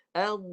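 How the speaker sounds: "Au" with the voice released and drawn out; sound let flow. Shown as a demonstration. Teacher demonstrating the unheld dhad sound to students, drawn out. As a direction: let the voice run freely through "Au". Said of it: "lepaskan suara. Jangan tahan".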